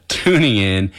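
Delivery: slow, careful "tuning" after a slip; corrected word stressed. Real, not acted. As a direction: lean on "tuning" to fix the misspoken word. Corrects own slip "turning in.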